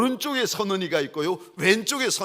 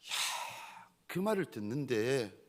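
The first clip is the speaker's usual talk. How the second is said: usual speaking voice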